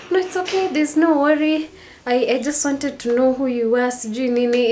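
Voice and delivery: high-pitched mock dismissal, imitating him; belittling brush-off. Man brushing off her missing business card, mockingly belittling. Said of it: "like, belittle me".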